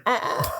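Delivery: short, high "oh" noise; mock groan. Podcaster as Ahab after the failed shot, high mock groan. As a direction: imitate his reaction to the failed shot. Retells failed suicide attempt.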